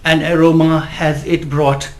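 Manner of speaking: slow, deliberate English verse; poem recitation. Acted. Poet on stage to the gathering, reciting his poem. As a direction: declaim slowly, pausing after each phrase.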